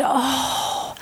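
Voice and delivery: softening to a broken whisper; grieving lament, voice falling away; tearful plea. Acted. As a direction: plead through tears, fading to a whisper. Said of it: "He was crying".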